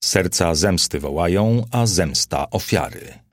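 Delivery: lightly declaimed verse, stressing wołają; declaiming. A narrator's reading. Nero rises and recites his verse to courtiers, mildly declaimed. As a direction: recite it like a line of poetry, understated. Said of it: "począł deklamować".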